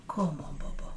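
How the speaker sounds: whispered coaxing to a pet. Real, not acted. Coaxing Bubba up, soft whisper. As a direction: breathe it softly to the dog.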